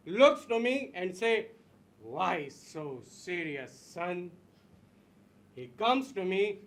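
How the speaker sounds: menacing villain. Acted. Villain telling scar story.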